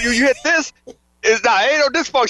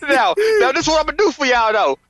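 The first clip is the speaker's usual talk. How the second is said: hyped TV salesman hard sell; infomercial pitch. Pretend. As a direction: sell it like a late-night ad. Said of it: "Act now".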